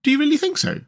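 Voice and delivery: high-pitched earnest question; serious. A narrator's reading. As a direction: ask in all seriousness. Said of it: "inquired the rat seriously".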